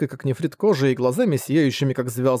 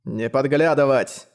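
stern; slower than usual. Acted. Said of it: "сурово наказал старик".

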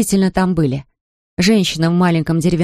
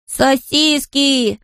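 higher, long drawn-out happy exclamation; joyful cry; 7 semitones higher, much slower than usual. A narrator's reading. Hungry boy hears about sausages, joyful cry. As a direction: stretch the word out in delight. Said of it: "радостно воскликнул Патрик".

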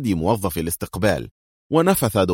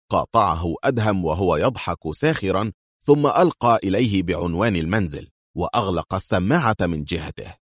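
plain reading voice

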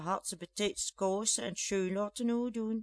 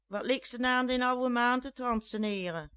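angry retort; 4 semitones higher, 5 dB louder than usual. Acted.

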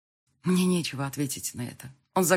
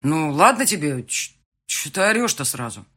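hurt reply; 8 dB louder than usual. Acted. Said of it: "обиженно отозвался Марк".

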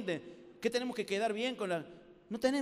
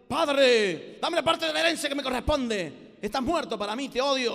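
shouting at his father, louder; defiant son; 4 semitones higher, 10 dB louder than usual. Acted. Prodigal son demanding his inheritance from his father, angry shout. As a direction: spit the words out in contempt.

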